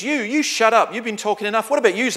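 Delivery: loud, high challenge in broad Scots; Scots accent. Retold or imitated. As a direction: fire the question in a Scots accent like a heckler. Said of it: "so I'll do it in Scots first".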